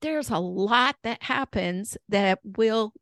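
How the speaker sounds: hoarse, worn voice; losing voice. Real, not acted. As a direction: voice going hoarse. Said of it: "I'm losing my voice today".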